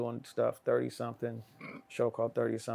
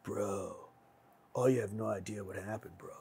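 hushed gossip; 3 semitones lower, 8 dB quieter than usual. Retold or imitated. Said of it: "They're like".

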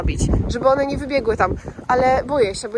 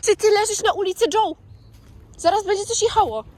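calling from far away; 10 semitones higher than usual. Real, not acted. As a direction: shout the warning across the street. Dog lying on the road.

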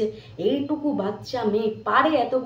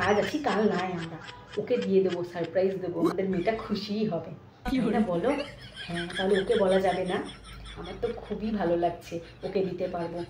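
hushed; 2 semitones lower, 6 dB quieter than usual. Acted. Secret plan with husband.

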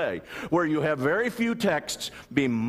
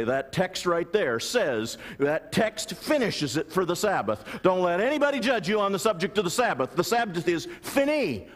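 raised, emphatic voice of an imagined opponent; mock dogmatic pronouncement; 6 semitones higher than usual. Preacher imitating critics of the Sabbath, mock dogmatic. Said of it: "And they will say".

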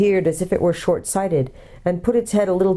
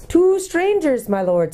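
high, slow hooted announcement; hooting owl; 11 semitones higher, slower than usual. A narrator's reading. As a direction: hoot it out for deaf ears, then drop. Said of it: "hooting kind of voice".

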